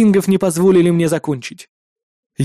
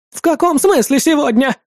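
high, screeching demand; shrill woman; 9 semitones higher than usual. A narrator's reading. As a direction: demand an answer, shrieking. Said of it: "не унималась крикливая женщина". (крикливая женщина требует ответа)

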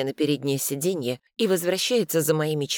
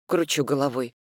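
ordinary delivery

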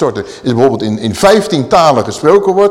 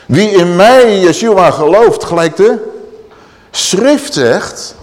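proclaiming; 4 semitones higher, 4 dB louder, slower than usual. Acted. Preacher proclaims Yeshua's words loudly.

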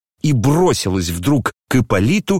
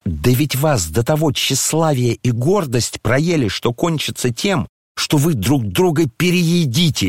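a higher, scolding general's wife; angry elderly lady; 6 semitones higher than usual. Acted. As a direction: berate the room, voice raised in indignation. Lizaveta's tirade at guests. (разгневанная генеральша, голос выше)

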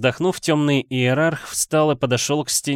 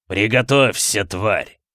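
menacing and cruel; sinister demon threat; slower than usual. Acted. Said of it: "Зловеще расхохотался демон". (зловещая угроза демона)

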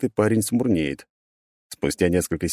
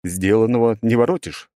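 stone golem verdict; 3 semitones higher, 3 dB louder than usual. Acted.

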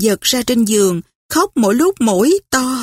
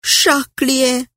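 sobbing name; 3 semitones higher than usual. Acted. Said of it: "Vừa nức nở trả lời". (khẽ nức nở gọi "Charlier")

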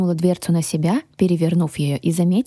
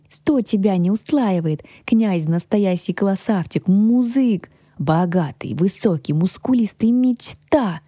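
lightly voiced lisping dragon singing someone's praises; little guardian dragon, gushing; 3 semitones higher than usual. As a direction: sell it enthusiastically as a small lisping dragon. (шепелявый дракончик, восторженно нахваливает)

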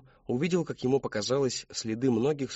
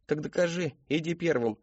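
raised pitch, goading him on; challenging dare; 6 semitones higher than usual. Acted. Boy to his brother, go first, challenging. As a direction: dare him in a higher boyish voice.

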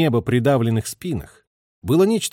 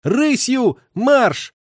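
much higher, louder ringing order; ringing high command; 12 semitones higher, 4 dB louder, much slower than usual. A narrator's reading. Lieutenant commanding the team from the limber, ringing. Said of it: "высоким, зазвеневшим голосом подал команду".

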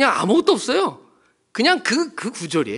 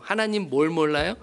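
ordinary talk

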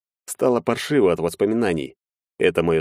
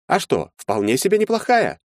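higher voice with a light chuckle; smirking lawyer; 10 semitones higher than usual. A narrator's reading. Emmanuil to Maxim, mildly amused, higher. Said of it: "усмехнулся Эммануил Рудольфович".

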